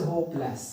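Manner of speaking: होपलेस split before लेस; separate syllable. Shown as a demonstration. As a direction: say होपलेस as होप, then लेस. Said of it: "separate you can say syllable". (होपलेस में लेस अलग syllable)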